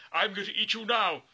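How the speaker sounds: high, loud hammed-up troll; troll threat. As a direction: gloat over the meal. Troll about to eat goat.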